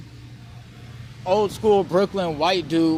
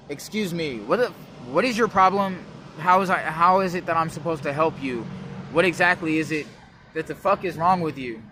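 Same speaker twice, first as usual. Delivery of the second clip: lightly done prim smartphone-assistant voice, turning irritated; a hint of Siri as a guy, getting fed up; Siri as a dude. Shown as a demonstration. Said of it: "that's how Donatello from Ninja talks".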